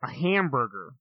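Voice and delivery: imitated American pronunciation of "hamburger"; "hamburger" in a demonstrated American accent. Shown as a demonstration. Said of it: "you guys, you guys call it".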